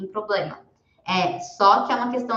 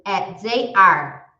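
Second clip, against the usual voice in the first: slow demo; 5 dB louder, much slower than usual. Shown as a demonstration. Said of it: "elas são".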